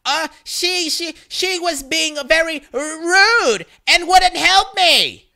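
stammering excuse. Retold or imitated. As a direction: stumble over the words, scared of the giant. Startled Karen stammering excuses.

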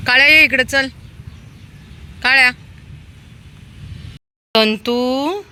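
loud, high call to a dog. Real, not acted. Feeder summoning stray dogs by name, calling out. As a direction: call out to summon animals from afar. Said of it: "किती वेळ झाला तुला आवाज देते".

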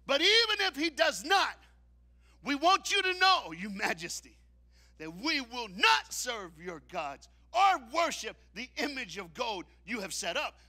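high, loud defiant scripture; preached shout. Acted. Preacher shouts the three men's defiance, full force. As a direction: shout their defiance for them.

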